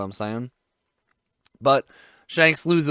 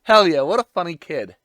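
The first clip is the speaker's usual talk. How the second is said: amused chuckle, a bit louder; laughing along; 4 semitones higher, 6 dB louder than usual. Retold or imitated. Villagers laughing at the boasting kid, amused chuckle. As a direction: laugh out the first words. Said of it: "looking at Luffy like".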